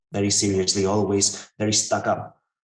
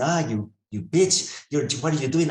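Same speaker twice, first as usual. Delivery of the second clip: higher-pitched mock indignation; retold insult; 4 semitones higher than usual. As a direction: act out cursing at the medicine, without shouting. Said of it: "he's even insulting her".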